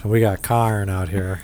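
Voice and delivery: carn for corn, broad Midwestern vowel; Midwestern accent. Retold or imitated. Host jokes about Midwestern corn in accent. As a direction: drawl carn like a Midwest farmer. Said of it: "That's my Midwestern accent".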